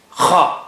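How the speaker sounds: kha said rasping from the throat in place of qa; the Hyderabad mistake kha; wrong kha. Teacher imitating people who say kha for qa. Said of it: "instead of qa".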